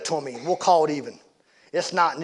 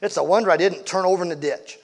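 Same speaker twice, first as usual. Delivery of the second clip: angry shouting driver; 3 semitones higher, 6 dB louder than usual. Acted. Angry driver yelling at Dad over the horse crash, loud and furious. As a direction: chew them out like a wronged driver.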